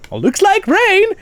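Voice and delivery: very high, loud, drawn-out call; Da Vinci. Retold or imitated. Da Vinci looking down at a swimmer, comically exclaiming. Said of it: "And he goes".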